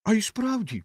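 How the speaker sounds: high-pitched eager agreement; excited high exclamation; exclaiming. A narrator's reading. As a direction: burst in with a high voice. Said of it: "вигукнула вогняна куля".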